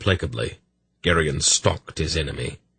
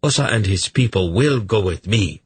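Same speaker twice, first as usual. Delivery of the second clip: authoritative king voice; 3 semitones higher than usual. Acted. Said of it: "I assert the authority of the crown".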